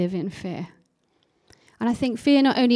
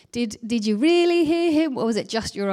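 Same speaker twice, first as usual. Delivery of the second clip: voice of doubt; 2 semitones higher than usual. Retold or imitated. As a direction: imitate a nagging inner doubt. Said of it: "it's the voice of doubt".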